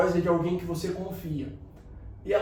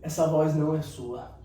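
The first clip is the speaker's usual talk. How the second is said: lower, sincere and gentle; heartfelt and lower; from the heart; 5 semitones lower than usual. Real, not acted. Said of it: "do fundo do meu coração".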